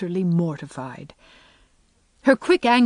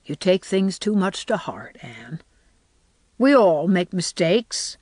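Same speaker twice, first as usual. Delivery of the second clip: gentle. Acted. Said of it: "very gently for her".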